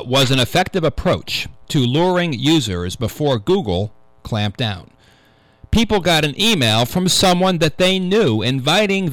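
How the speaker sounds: measured radio news-reader delivery. Real, not acted. Host reading a security news item to radio listeners, news read. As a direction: read the tech story out deliberately, phrase by phrase.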